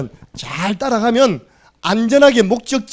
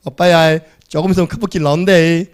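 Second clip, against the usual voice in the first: punchy, loud Gyeongsang navigation call; Gyeongsang dialect; 5 dB louder than usual. Retold or imitated. Car navigation warns of a curve ahead, Gyeongsang dialect. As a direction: play a sat-nav with a broad Gyeongsang accent. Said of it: "완전 원색적인 경상도 사투리".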